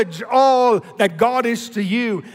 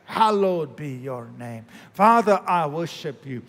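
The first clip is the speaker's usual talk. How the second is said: tender worship prayer. Shown as a demonstration. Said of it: "So you're spending some time thanking Him".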